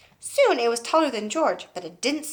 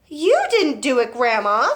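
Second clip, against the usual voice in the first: put-on boyish shout; 3 semitones higher, 6 dB louder than usual. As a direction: yell it up to the roof. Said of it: "George shouted back to her".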